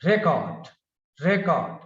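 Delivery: RE in record hit hard, then falling; RE-cord, first syllable punched; stress on first syllable. Shown as a demonstration. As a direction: say record with the weight on RE. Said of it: "stays on first syllable".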